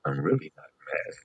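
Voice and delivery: ordinary talk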